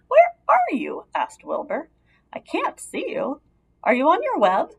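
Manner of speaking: high, worried pig calling into the dark; lightly voiced pig searching in the dark; anxious little pig. A narrator's reading. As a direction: call out for her like a nervous small pig.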